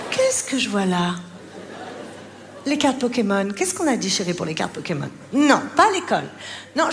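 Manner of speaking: mock calm mother. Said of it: "la maman Calme".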